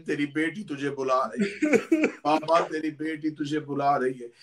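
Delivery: put-on crying child's call. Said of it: "डाल के रो के कहने लगी".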